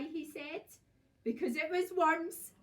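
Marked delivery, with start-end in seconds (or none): 1.2-2.5 loud, high triumphant cry; wife gloating at her husband, loud and high; gleeful cry. A narrator's reading. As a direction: crow it out in spiteful glee. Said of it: "cried Missus Twit".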